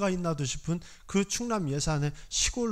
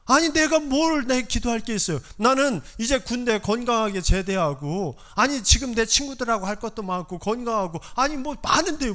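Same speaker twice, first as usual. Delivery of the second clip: incredulous protest; 4 semitones higher than usual. Retold or imitated. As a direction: scoff at the very idea.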